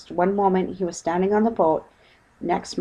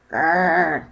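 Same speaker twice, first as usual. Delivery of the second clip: growl; 4 dB louder than usual. Acted. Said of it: "said Paddington".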